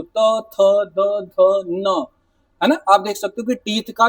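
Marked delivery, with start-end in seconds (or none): 0.0-2.0 each consonant said slowly and separately; sounding out dental consonants. Shown as a demonstration. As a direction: demonstrate त थ द ध न one by one, tongue on teeth. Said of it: "आप बोल के भी देख लो".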